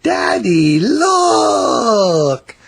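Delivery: put-on high, eager little girl calling daddy; excited child call. A narrator's reading. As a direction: show off the cart, thrilled. Child shows father cart.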